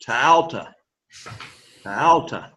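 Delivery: "Tau ta" with Tau gliding up and back down; circumflex tone. Shown as a demonstration. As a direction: arch the pitch over Tau, then drop on ta. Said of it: "go up and then go back down".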